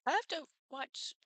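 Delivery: breathy whispered aside. Real, not acted. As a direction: whisper it to chat. Unvoiced aside.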